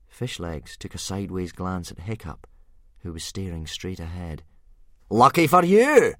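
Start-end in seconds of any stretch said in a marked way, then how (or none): 5.1-6.2 ominous. A narrator's reading. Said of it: "said Gobber ominously".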